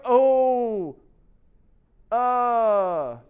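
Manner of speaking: drawn-out, stalling mock groan; reluctant stalling. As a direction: stall as if caught off guard. Voices students caught off guard, stalling.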